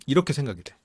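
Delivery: ordinary delivery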